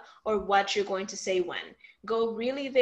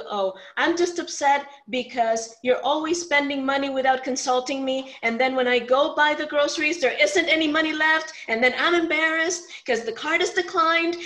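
louder, higher mock complaint; upset partner complaining; 4 semitones higher, 4 dB louder than usual. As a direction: rant like an upset partner, half-hammed. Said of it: "let's say they tell you".

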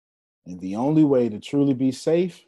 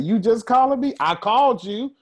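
retold phone call; 10 semitones higher, 4 dB louder than usual.

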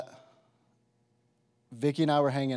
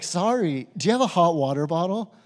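higher, louder attempt at Irish; shaky grasp of an Irish accent, pitched up; bad Irish accent; 4 semitones higher, 5 dB louder than usual. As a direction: politely ask in a badly imitated Irish accent. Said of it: "I can't do an Irish accent".

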